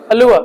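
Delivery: अलुआ ending in an "uh" vowel, no r; silent r. Shown as a demonstration. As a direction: repeat अलुआ as a model, r silent. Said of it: "र silent रहता है लेकिन अ की sound देता है".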